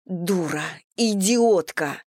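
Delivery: slow, spat-out insults; angry outburst. Acted. Anna berates Irina for tampering with the scales, angry outburst. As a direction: let the anger boil over. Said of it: "разошлась Анна".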